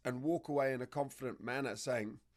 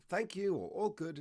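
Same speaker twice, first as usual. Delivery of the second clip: light, higher-pitched, kindly acknowledgement; gentle voice; 6 semitones higher than usual. Shown as a demonstration. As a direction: gently reassure the dog. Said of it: "in a gentle voice".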